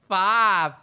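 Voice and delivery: loud group count from behind; shouted count from the back; crowd counting loud. Retold or imitated. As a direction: call the numbers out loud like the crowd. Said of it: "Everybody behind me was like".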